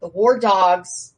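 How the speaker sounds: slow, loud, weighty title; reciting the theme. Shown as a demonstration. Reading out the group's theme, slow and weighty. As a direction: announce the name like a motto. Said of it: "and it is the theme".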